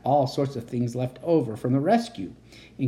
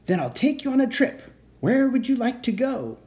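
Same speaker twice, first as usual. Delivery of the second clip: put-on high, bright-eyed baby dragon; eager little dragon offering a trip; 11 semitones higher than usual. Dragon voiced in read story.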